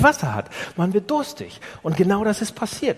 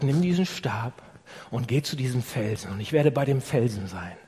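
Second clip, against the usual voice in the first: voice of God; 5 semitones lower, 4 dB quieter than usual. Retold or imitated. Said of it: "Gott geht zu Mose und sagt".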